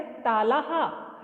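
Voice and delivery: तालाहा drawn out slowly; slow demo. Shown as a demonstration. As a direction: stretch the word out for pupils. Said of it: "ये ताले देखो". (धीमा उच्चारण)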